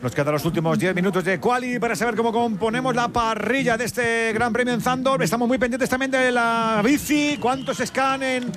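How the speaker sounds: upbeat, lifted sports-radio host voice; radio announcer. Acted. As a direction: announce it like a live sports show. Radio host hands over.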